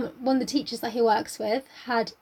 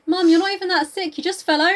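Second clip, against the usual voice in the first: exasperated daughter; 5 semitones higher, 6 dB louder than usual. Acted. Acted daughter scolding dying mother.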